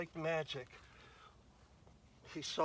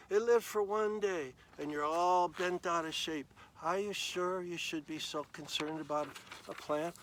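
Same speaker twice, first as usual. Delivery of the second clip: reasoning God; 2 semitones higher than usual. Acted. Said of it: "God said to him".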